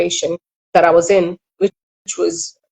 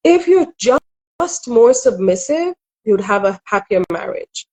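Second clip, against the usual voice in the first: higher-pitched lilt, mimicking unwanted advisers; mock well-meaning marriage advice; imitated admonishing advice; 4 semitones higher than usual. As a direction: quote their lecturing advice, lifted and singsong. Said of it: "I was told, you know".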